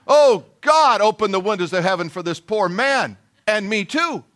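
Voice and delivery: a half-joking plea to heaven; mock desperate prayer. Pastor praying aloud for the struggling man, mock desperate.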